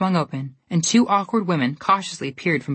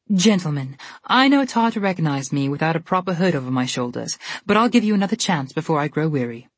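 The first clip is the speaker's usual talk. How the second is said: haughty. Acted. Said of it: "with a haughty smile".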